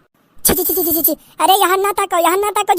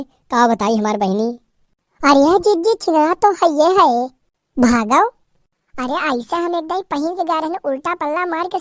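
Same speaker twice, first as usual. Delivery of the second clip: nosy neighbour aunt clucking in disgust; gossiping village aunt. Acted. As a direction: gossip with relish about the staring men.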